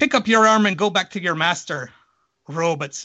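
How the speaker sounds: put-on stage Irish policeman accent. Retelling a story, the speaker quotes what the cop says: Irish cop accent. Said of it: "I was going to do a nice Irish accent".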